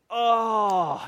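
a long, comic oh of dismay; mock sudden realization. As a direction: act out remembering something forgotten. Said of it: "God's like".

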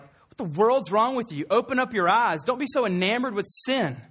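a hammed-up what is wrong with you; exasperated outburst. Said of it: "My first thought is like".

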